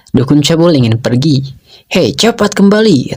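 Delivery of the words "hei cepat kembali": higher-pitched mock yell, no real volume; understated narrated shout; calling out. A narrator's reading. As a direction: call someone back urgently, pitch raised. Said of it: "teriak Jinglong".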